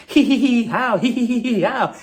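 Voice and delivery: high, fake cackling hee-hees; mock group laughter. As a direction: imitate a room in hysterics, exaggerated. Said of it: "they were all laughing".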